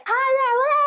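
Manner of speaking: a silly high-pitched hi; mock perky greeting. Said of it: "I don't wanna be like".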